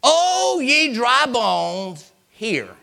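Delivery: drawn-out, high, ringing call; prophetic command. Acted. Prophet commanding dry bones to listen, ringing drawn-out call. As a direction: call out slowly and high, then drop on the last word.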